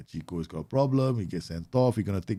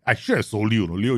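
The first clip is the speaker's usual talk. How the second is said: lightly put-on manager's annoyance; mild mock scolding; 4 dB louder than usual. Manager regretting he kept a striker, mild mock scolding. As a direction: grumble at a player, a little louder. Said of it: "You know how angry I am".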